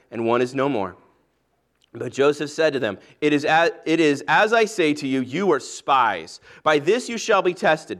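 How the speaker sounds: measured, solemn Bible reading aloud; scripture reading. Acted. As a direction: read the Genesis passage to the congregation. Scripture reading before the sermon.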